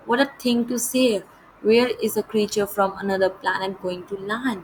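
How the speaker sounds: measured, slow read-aloud of the English text; deliberate storybook narration; slow story reading. A narrator's reading. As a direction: read each phrase out slowly and clearly, like a lesson passage.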